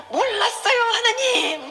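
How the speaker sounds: high, drawn-out begging cry; high plaintive wail, retold; childlike pleading. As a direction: re-enact begging God like a child. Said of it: "애기가 엄마 아빠한테 막 이렇게 비는 것처럼".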